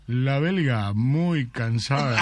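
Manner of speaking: slow, deliberate answer as the Japanese record holder; lightly voiced Japanese man, drawn out. Japanese man answers the interviewer, slow and proud.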